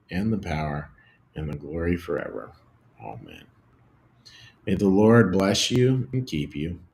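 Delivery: measured prayer with pauses between phrases; prayer and benediction. Real, not acted. Pastor leading the Lord's Prayer and blessing, measured and reverent. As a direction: recite it reverently, phrase by phrase, letting endings fall.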